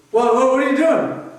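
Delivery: startled, voice jumping up; alarmed. Retold or imitated. Bobby to Louis, alarmed as the hook goes on.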